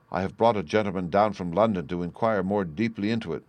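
mildly heated, emphatic insistence; firm refusal. Acted. Banker refusing his niece's plea, firmly insistent. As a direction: stand your ground with some force.

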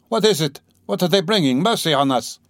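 frightened, seeing the crowd; alarmed cry. Acted. Sees men bringing a burden.

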